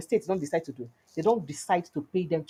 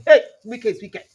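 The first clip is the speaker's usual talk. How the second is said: mock crowd shout; 3 semitones higher, 8 dB louder than usual. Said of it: "people will start shouting".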